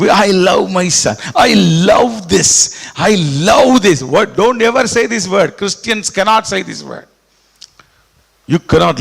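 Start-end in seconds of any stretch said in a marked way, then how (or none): 0.1-4.0 mock doting believer. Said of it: "Don't say".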